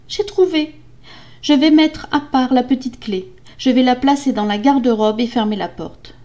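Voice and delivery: high voice of the wife, lightly excited; sudden relieved idea. Acted. Wife to herself, mildly excited plan. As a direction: voice a hopeful new plan.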